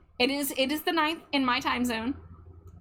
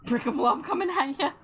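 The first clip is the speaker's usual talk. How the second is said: laughing; 3 semitones higher, 4 dB louder, faster than usual. Real, not acted. Playful throw, laughing.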